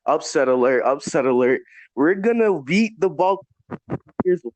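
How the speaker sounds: muffled, like through a wall; dull, covered-up sound. Real, not acted. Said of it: "You sound muffled again".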